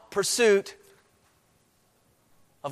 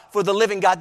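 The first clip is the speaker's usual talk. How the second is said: preaching; 4 dB louder than usual. Acted. Preacher urging the congregation, emphatic. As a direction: press the words home to the congregation.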